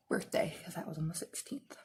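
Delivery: soft whisper tacked on the end; whispered aside. Real, not acted. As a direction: slip into a whisper as an afterthought. Aside about her birthday date.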